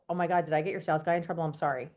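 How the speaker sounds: quick, softening retold apology; mild fluster, dropping away on the sorry; apologetic worry. Customer fretting over the sales guy's trouble, mildly apologetic.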